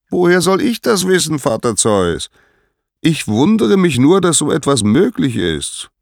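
very high, loud sky-herald report; high, ringing call; Helios calling down. A narrator's reading. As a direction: report it from high above, dropping on the address. Voices Helios answering Zeus.

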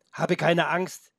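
steady the listener with unhurried words; reassuring. A narrator's reading. Felix calms the trembling goat, reassuring. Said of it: "beruhigte sie Felix".

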